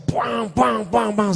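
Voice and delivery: sermon mimicked as booming bangs; imitated preaching noise. Preacher sums up his sermon to listeners, mock noise. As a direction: punch out a string of mock bangs.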